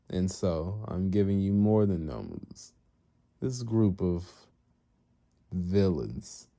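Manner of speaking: slow, deliberate villain boss; villain master. Retold or imitated. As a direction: draw it out with grand patience. Master rewarding his servant, acted.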